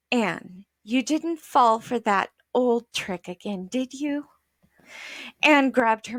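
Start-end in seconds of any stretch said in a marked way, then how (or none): 0.1-4.3 lower, gently weary mother; calm a jumpy child. Acted. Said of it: "in a low, calm voice".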